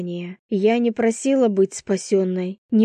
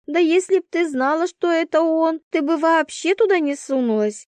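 a higher, animated friend; roommate voice; 8 semitones higher than usual. A narrator's reading. Roommate reasoning with Vasya, animated. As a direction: reason it out quickly. Svetka's voice.

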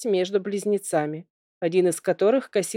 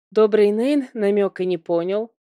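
plain reading voice

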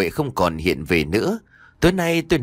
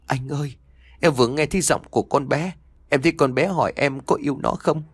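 tearful pleading; 5 semitones higher than usual. Acted. Mother weeping tells husband.

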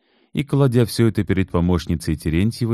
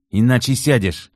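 threat; 6 semitones higher than usual. Acted. Kit threatening Natalya.

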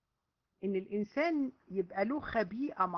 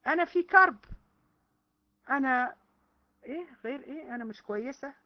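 mock complaining woman; 3 semitones higher, 4 dB louder than usual. Mocking women's public complaints.

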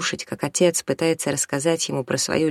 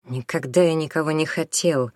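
ordinary delivery, nothing marked

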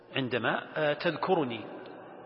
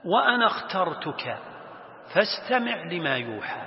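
Quran recitation; 2 semitones higher than usual. Acted. Teacher quoting God's words to Moses, reciting. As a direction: recite with long-held vowels. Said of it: "ثم يقول الله سبحانه وتعالى".

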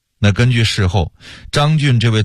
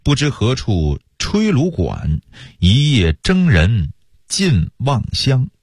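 slow, measured verse recitation; reciting a poem; slower than usual. A narrator's reading. Storyteller quotes a homesick soldiers' poem, slow recitation. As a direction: draw out each phrase like classical verse. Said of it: "有诗云".

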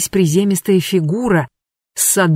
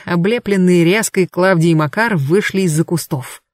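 ordinary delivery, nothing marked

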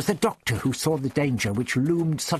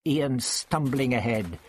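ordinary talk

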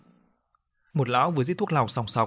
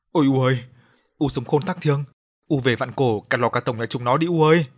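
wailing outcry; 4 dB louder than usual. Acted. Daughter wailing over her mother's spilled coffin, loud outcry. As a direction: wail for your dead mother and curse them. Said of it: "gào lên".

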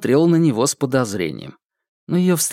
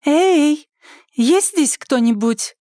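high, raised call into the house; 3 dB louder, much slower than usual. Acted. Woman arriving at the empty house, calling out for anyone. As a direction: call out to whoever is inside. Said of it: "позвал женский голос".

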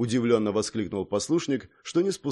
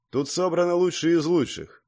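higher but composed rebuttal; calm objection; 7 semitones higher than usual. A narrator's reading. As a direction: counter it calmly. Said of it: "возразил спокойно Владимир".

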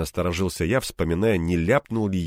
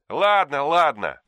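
grudging louder grumble; grumbling; 8 semitones higher, 4 dB louder, slower than usual. A narrator's reading. Anton giving in grudgingly, grumbling. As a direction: give in with a grumble. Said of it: "недовольно пробурчал он".

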